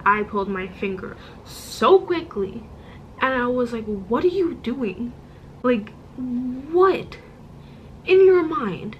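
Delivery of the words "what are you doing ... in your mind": imitating an indignant outburst, rising and louder in the middle; exasperated outburst. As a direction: replay the moment you snapped at her, half mock. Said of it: "I'm getting angry".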